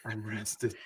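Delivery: mock smug. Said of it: "Yeah, we heard it".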